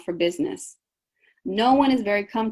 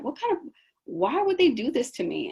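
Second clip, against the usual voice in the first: mock indignant whine; 5 semitones higher than usual. Acting out a hurt, baffled reaction.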